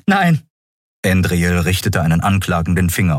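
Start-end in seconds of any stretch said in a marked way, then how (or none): 0.1-0.4 high, sharp cry of no; outburst of denial. Acted. Endriel refuses to believe Keru, sharp cry. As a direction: reject it outright.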